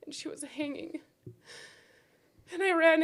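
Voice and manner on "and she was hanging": hushed, breathy whisper. Real, not acted. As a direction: barely voice the words, stunned. Whispering the horrific discovery.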